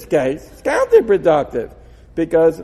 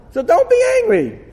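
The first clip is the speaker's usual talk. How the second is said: emphatic; 5 dB louder than usual. Real, not acted. Punchline of his argument.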